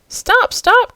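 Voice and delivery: high, pleading cry. A narrator's reading. Octopus interrupting the girl's insults, pleading. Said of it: "cried the monster in a pleading voice".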